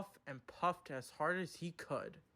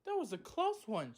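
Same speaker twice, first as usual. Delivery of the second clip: relieved; 12 semitones higher than usual. Acted. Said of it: "she said thankfully".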